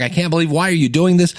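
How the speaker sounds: a hint of an indignant outburst; mock outburst. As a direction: act out getting worked up, half in jest. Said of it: "I get loud".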